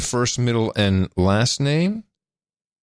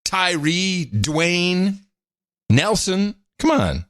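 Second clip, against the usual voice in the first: excited high protest; 8 semitones higher than usual. Real, not acted. Protesting while laughing.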